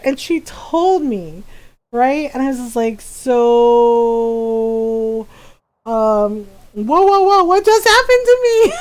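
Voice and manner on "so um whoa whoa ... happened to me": stunned disbelief. Retold or imitated. Stunned by mother's unexpected reaction.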